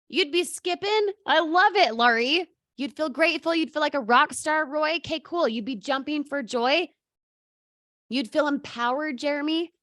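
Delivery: high, bright celebratory calls; giddy role-play of happy winners; joyful cheering. Pretend. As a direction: cheer them on like they just won. Acting out joyful audience replies.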